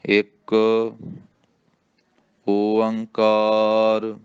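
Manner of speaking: ਇੱਕ ਓੰਕਾਰ spoken very slowly, ਓੰਕਾਰ drawn out syllable by syllable; ਇੱਕ ਓੰਕਾਰ ਹੌਲੀ ਤੇ ਸਾਫ਼ ਉਚਾਰਨ; careful recitation. Shown as a demonstration. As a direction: model ਇੱਕ ਓੰਕਾਰ slowly for students to repeat. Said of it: "ਇਹਦਾ ਉਚਾਰਨ ਕਰਨਾ".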